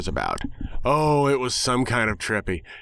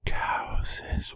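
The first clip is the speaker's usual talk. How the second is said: softer, breathy whispered Cowses; 4 dB quieter than usual. Acted. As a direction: whisper the word like a conspiracy. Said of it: "began to whisper".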